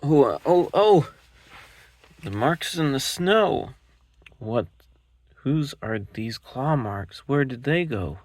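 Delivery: high, loud excited little monster; a cub thrilled by claw marks; Gruffalo's child. Acted.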